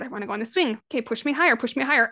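mild imitation of an eager kid; excited child. Mother voicing her son on the swing, mildly excited. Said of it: "he'll be, like, excited".

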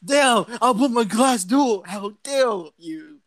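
loud, high start, then drawn-out indignation; mock outrage. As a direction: splutter in playful fury. Acted fight with British intruder.

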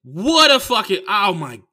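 loud, high raging outburst, voice cracking; real rage. Real, not acted. Comic telling the crowd about the crash, real raging outburst. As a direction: explode in real fury. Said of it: "you guys have seen my temper".

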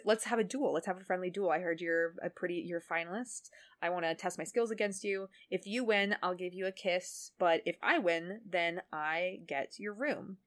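soft, lightly acted coaxing; mild retold flirtatious persuasion; Mai laying on charm. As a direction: coax them sweetly into a wager, understated. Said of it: "lays on the charm and says".

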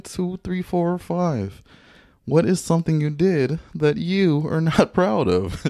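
slow, high host voice; show host. Acted. Announcing segment like host.

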